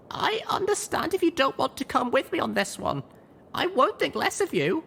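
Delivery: high, firm offer; resolute young mare. A narrator's reading. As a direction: give them an out, firmly. Littlepip resolute.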